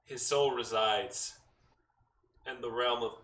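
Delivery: a hint of a god's voice, long pauses; lightly voiced booming god. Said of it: "booming voice echo, deep, resonant, and imposing".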